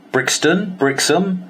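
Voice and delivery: high, rising disbelief; can't believe he means London; Brixton? Brixham?, high and questioning; incredulous. Retold or imitated. Disbelief at London office location.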